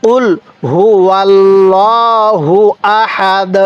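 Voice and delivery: word by word, drawn out; slow recitation. Shown as a demonstration. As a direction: recite slowly for learners to repeat. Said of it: "আমার সাথে সাথে পড়ুন".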